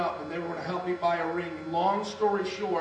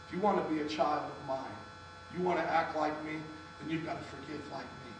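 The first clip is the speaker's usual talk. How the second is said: lightly voiced God, lower at the end; gentle divine admonition; 3 semitones lower, 6 dB quieter than usual. God telling Joe he must forgive, quiet admonition. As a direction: imitate a quiet correction, falling much softer.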